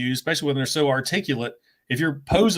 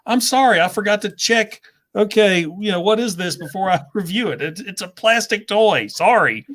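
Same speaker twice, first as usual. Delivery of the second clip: mock apology; 5 semitones higher than usual. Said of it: "I was like".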